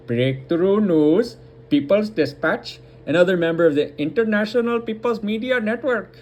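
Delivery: put-on light Indian English accent, half-joking; reading news names in a playful Indian accent; Desi accent. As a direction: slip into a mild Desi accent while reading. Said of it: "I don't know why I'm saying in a Desi accent".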